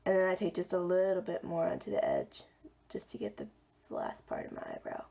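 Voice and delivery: hoarse, half-whispered voice; a croaky near-whisper, voice giving out. Real, not acted. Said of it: "I'm so croaky today".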